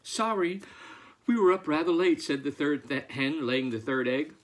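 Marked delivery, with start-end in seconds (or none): 0.0-2.2 higher-pitched hen voice; apologetic hen. A narrator's reading. Third hen excusing herself to farmer, high apologetic voice. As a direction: offer an excuse in a raised voice.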